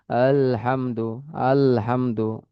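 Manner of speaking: আলহামদু drawn out slowly, each sound of আলহামদু shaped from its point of articulation; slow recitation demo. Shown as a demonstration. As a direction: say আলহামদু slowly with a clear opening আ. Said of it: "এটা কোথা থেকে উচ্চারণ হচ্ছে?". (ধীরে ধীরে স্পষ্ট উচ্চারণে আলহামদু)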